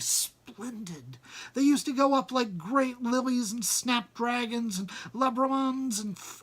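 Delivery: lightly voiced Bilbo gushing over old memories; mild hobbit excitement. Bilbo remembers Gandalf eagerly.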